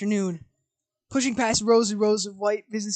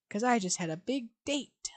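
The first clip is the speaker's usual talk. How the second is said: hushed, secretive reply; whisper; 6 dB quieter than usual. Acted. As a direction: breathe it out softly.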